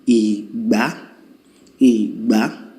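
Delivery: "Igba" low then rising high; low-high tone demo. Shown as a demonstration. Teacher modelling the do mi tones of "Igba". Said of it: "So when I go do mi".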